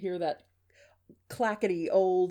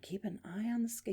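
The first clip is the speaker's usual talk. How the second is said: softly musing aloud; dad thinking to himself in the background; pondering; 7 dB quieter than usual. Acted. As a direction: mull the phrase over quietly. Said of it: "He's pondering".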